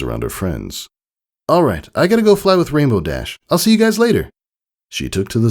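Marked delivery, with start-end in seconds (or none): 1.5-4.3 high filly voice. A narrator's reading. Scootaloo leaving.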